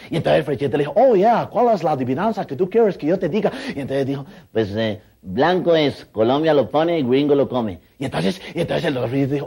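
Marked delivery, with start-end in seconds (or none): 1.0-3.5 viceroy voice. Retold or imitated. Imita al virrey Frechete. 4.5-7.8 slow riddle voice. Retold or imitated. Imita al niño, lento.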